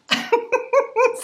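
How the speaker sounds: high, bright burst of laughter; real giggle at her own expense; embarrassed laugh. Real, not acted. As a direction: laugh at yourself, a little sheepish. Laughing at shaming herself.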